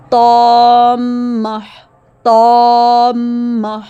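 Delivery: طامہ slow, heavy alif then a held doubled meem. Shown as a demonstration. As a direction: draw out طامہ and press the meem. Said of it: "میم شد کو ملائیں گے". (طامہ میں موٹا الف اور مضبوط میم)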